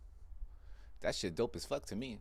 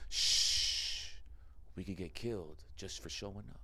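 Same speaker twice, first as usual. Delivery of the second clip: hushed warning; 4 semitones lower, 5 dB quieter, slower than usual. Retold or imitated. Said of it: "repeats friend's hush softly".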